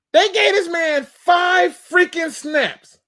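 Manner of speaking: slow, high, shouted disbelief; outraged shout. Real, not acted. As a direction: yell it at the coaches, dragging each word. Outraged at the rookie's usage.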